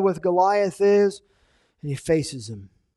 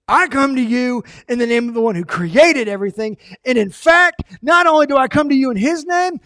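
much higher and louder triumphant preaching; full-force preaching; 7 semitones higher, 6 dB louder than usual. Acted. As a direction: raise the taunt to a shout of victory. Preaching David's taunt at full force.

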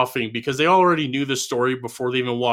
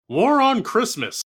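slow, higher, booming headline voice; dramatic TV announcer; 9 semitones higher, slower than usual. Retold or imitated. Dad turns on the TV, announcer booms. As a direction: intone it like breaking news.

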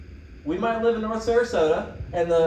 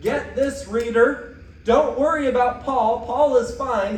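emphatic address; 5 semitones higher, 5 dB louder than usual. Acted. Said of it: "it is double emphasis".

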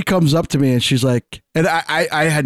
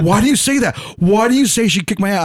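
higher, defensive mock outrage; mock offended anger; 6 semitones higher than usual. Guy getting mad that a girl could beat him, higher mock outrage. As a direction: act wounded and indignant. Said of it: "he's getting so mad".

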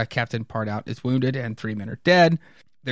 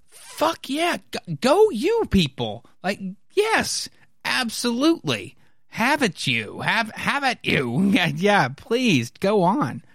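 high-pitched, gushing enthusiasm; mock cheering; 9 semitones higher, slower than usual. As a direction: cheer them on in a squeaky high voice. Acts out own delighted cheering reaction.

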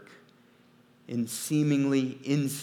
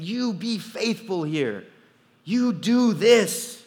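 slow, firm, much louder divine command; voice of God demanding; 7 semitones higher, 7 dB louder, slower than usual. Acted. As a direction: lay down the command slowly, a hint of God's voice. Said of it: "he's saying".

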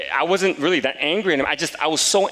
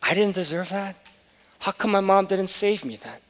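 incredulous questioning; 8 semitones higher than usual. Retold or imitated. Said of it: "And I said".

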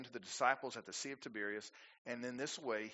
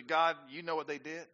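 tattling prayer; 4 dB louder than usual. Retold or imitated. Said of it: "My opening prayer for them is usually".

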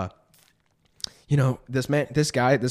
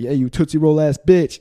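louder, higher imitated heckle; mock taunting shout; 5 semitones higher, 8 dB louder than usual. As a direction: call it out like the robber. Robber calls out taunt in story.

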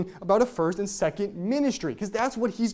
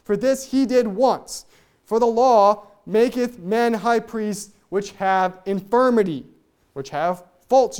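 resonant, deliberate Bible reading; solemn scripture reading; 4 dB louder than usual. Acted. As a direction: proclaim the verses like a preacher at the pulpit. Reads scripture aloud with force.

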